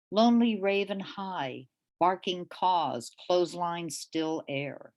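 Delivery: measured, deliberate poetry reading voice. Acted. Poet reading her poem to the audience, measured reading. Reads a tanka.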